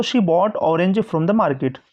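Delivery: slow, word-by-word dictation; slow example reading. Shown as a demonstration. Teacher reading the sentence slowly to students. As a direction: read the example slowly for the class. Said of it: "ऑरेंज की जब आप sound आ रहा है".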